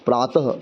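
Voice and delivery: प्रातः ending in a soft breathy h; visarga as soft h. Shown as a demonstration. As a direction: breathe a light h after प्रातः. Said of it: "ह का उच्चारण हो रहा है".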